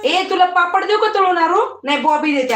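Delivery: loud soothing. Real, not acted. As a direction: talk over her crying to settle her. Calming the crying toddler. (रडणाऱ्या मुलीला मोठ्याने समजावणे)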